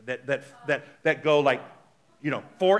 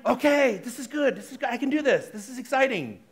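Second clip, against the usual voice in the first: calm reassurance; 7 semitones higher than usual. Shown as a demonstration. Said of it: "Or are you going".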